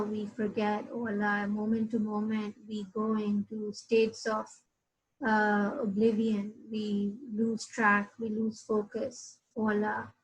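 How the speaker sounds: heartfelt prayer. Real, not acted. Preacher ending the session with a dua, humble and hushed. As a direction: pray it, humble and pleading.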